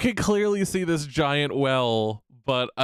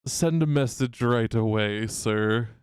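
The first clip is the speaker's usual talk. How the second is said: retorting; slower than usual. Acted. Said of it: "just retorts".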